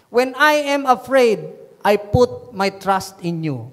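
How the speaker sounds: slow, measured verse reading; measured first reading of a psalm; scripture reading. Real, not acted. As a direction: read the verse out slowly and deliberately. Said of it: "Pwede bang ulitin natin tong psalm".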